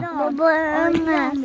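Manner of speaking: drowsy mumbling half asleep; sleep talking. Real, not acted. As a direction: murmur the words in sleep. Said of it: "anne anne diye sayıklıyor".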